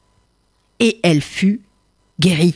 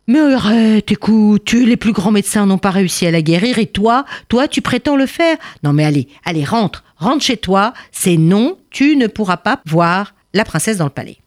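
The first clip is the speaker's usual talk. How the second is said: lightly voiced guard, firmly shooing him off; impatient officer. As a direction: send him home, exasperated. Officer refusing, uneasy.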